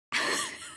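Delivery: short high breathy giggle; a brief, high little laugh; light laugh. Acted. Laughing in reply.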